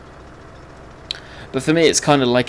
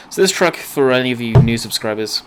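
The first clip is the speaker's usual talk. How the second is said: knocks the desk mid-sentence; banging the desk; 6 dB louder than usual. Real, not acted. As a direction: desk thump under the words. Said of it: "I just hit my desk".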